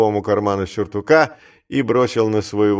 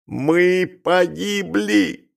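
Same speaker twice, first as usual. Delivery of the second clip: despairing cry; 7 semitones higher, much slower than usual. A narrator's reading. Clerk realising the theft will be found, crying out in despair. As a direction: wail it slowly in despair. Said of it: "вскричал Маковой".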